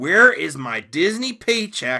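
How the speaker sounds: sarcastic, mocking delivery. Criticizing online commentators, the speaker repeats their remark, quoting them sarcastically. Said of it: "in sarcasm".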